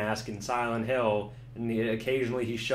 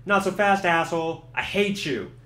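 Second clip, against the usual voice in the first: hammed-up cop threat; 5 semitones higher, 5 dB louder than usual. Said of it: "she's like".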